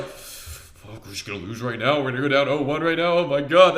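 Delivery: mock panicked inner voice, rising as it goes; imitated freak-out. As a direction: act out a teammate's mounting panic. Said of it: "Carl freaking out".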